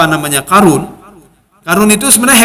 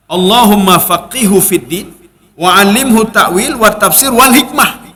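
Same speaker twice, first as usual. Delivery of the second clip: prayer recitation. Acted.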